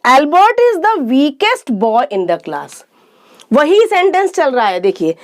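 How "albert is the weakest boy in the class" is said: each word said slowly and clearly; slow classroom dictation; slow example sentence. Shown as a demonstration. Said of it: "अब देखिए".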